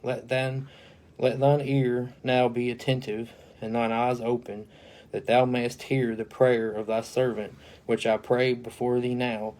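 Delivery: a formal, solemn Bible reading; measured King James recitation; scripture reading. Acted. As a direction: read the verse out like a preacher at the pulpit. Reads Nehemiah scripture aloud.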